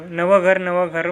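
put-on excited kids chanting new house; children's shout. Children shouting at dinner about new house, mock cheer. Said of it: "म्हणून ओरडू लागलो".

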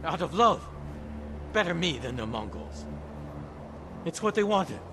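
desperate pleading. Acted. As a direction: plead your case, voice pitched high. Cornered killer pleads his motive.

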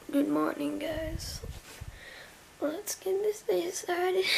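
slow soft morning whisper. Real, not acted. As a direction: whisper it so nobody wakes. Early morning, quiet start.

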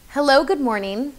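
presenter demo with long pauses between phrases; one phrase per person. Shown as a demonstration. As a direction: deliver one phrase, pause, then the next. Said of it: "do one phrase to one person".

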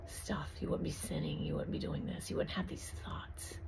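soft, unvoiced whisper of doubts; devil's whispered lies. Preacher voicing Satan's doubting thoughts as a soft whisper. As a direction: hiss the enemy's lies into their ear. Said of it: "He plants thoughts in our heads".

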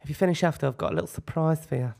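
lightly put-on suggestive well-wisher; Diego. Diego promises the boys a birthday surprise, lightly voiced impersonation. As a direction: congratulate the boys with a hint of character.

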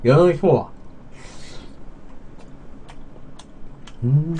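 talking while chewing; speaking around food; mouth full. Real, not acted. Seen 0: Puts sushi in mouth with chopsticks, then visibly chews throughout.

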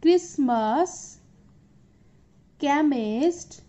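each word said slowly and distinctly, with long pauses between, ch as a hard k in "Christmas", "chemist", "scheme", "chameleon", "chorus", "school", "monarch"; clear pronunciation drill. Shown as a demonstration. Teacher to students reading ch words together: careful slow demonstration. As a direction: spell out every ch word with a crisp k sound, one at a time. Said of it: "Okay, so read with me".

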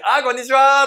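loud, high, long hello; hammed-up hearty reply; eager customer greeting back. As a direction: return the greeting with gusto. Acting customer who greets staff back.

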